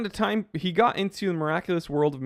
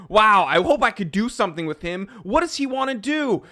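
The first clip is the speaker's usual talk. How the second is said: higher, a lightly voiced starstruck fan; mock gushing fan; 4 semitones higher, 3 dB louder than usual. Mocking a fan who wants to ride his coattails, gushing. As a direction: gush like an eager wannabe fan. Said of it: "you people that wake up and".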